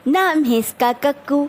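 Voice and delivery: measured, rhythmic verse recitation; teacher's sing-song poem reading; poem recitation demo. Shown as a demonstration. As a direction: recite line by line for children to learn. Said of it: "तो इस तरीके से आप थोड़ी थोड़ी line करके".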